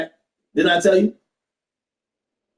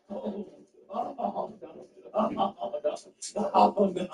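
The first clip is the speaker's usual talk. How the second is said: stunned oh no; 11 dB quieter than usual. Real, not acted. Dismay at the message.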